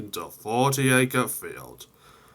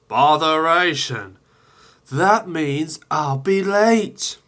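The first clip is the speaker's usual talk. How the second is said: Thomas annoyed; 6 semitones higher, 6 dB louder than usual. Acted. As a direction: grumble about being late.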